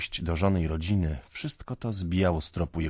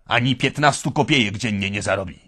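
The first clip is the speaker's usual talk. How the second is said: loud, high bitter retort; bitter outburst; 6 semitones higher, 10 dB louder than usual. Acted. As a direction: spit out the hopeless answer. Drunk man's bitter answer. (głośno i gorzko)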